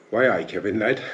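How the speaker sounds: put-on a light, half-done Geordie accent; barely-there Geordie lilt on a retold greeting. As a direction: toss off a quick Geordie greeting. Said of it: "that's a fucking Geordie accent".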